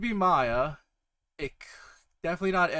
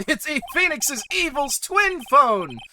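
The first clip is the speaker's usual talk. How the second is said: excited slow exclaim; 11 semitones higher, 7 dB louder, slower than usual. Real, not acted. Excited joke reveal.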